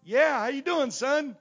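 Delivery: high, booming phone greeting; hearty shouted greeting. Retold or imitated. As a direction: shout back a big hello. Other man's reply on the call.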